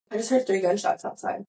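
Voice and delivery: level deadpan report; composed, unbothered retelling; calm, matter-of-fact. Retold or imitated. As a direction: report it evenly, as if nothing is urgent. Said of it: "Literally said it just like that".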